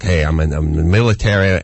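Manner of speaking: lightly voiced, low-pitched peacemaker; a hint of the friend talking sense; mildly acted appeal to reason; placating buddy. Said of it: "trying to talk a little sense".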